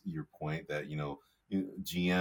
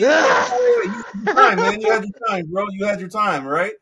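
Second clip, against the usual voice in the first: loud, high shout cutting in; shouting over him; 12 semitones higher, 13 dB louder than usual. Real, not acted. Co-host shouting over the host to finish his point, loud and high. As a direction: shout him down to take the floor back. Talking over co-host's interruption.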